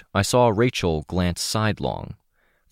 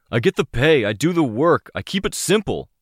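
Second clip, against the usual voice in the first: strained insistence; 9 semitones higher, 4 dB louder than usual. Acted. Mercenary insists under pressure.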